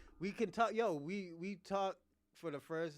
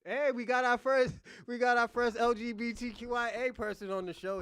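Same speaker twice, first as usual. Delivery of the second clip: louder, like a showman introducing a guest; mock announcement; 4 semitones higher, 6 dB louder than usual. Real, not acted. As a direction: announce it to the whole stream as a joke.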